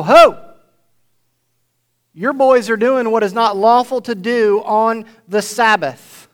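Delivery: loud indignant "Ho!" then a scolding complaint; mock scolding Pharisee. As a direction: scold like an offended religious leader.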